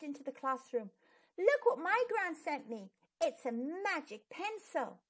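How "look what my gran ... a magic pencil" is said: put-on a boy proudly calling out his news; shouting. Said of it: "he shouted".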